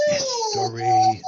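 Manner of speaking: "History" slowly, "His" whispered, rest voiced; whispered first syllable. Shown as a demonstration. Coach models again for boy, "His" whispered in "History". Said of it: "So just whisper hiss".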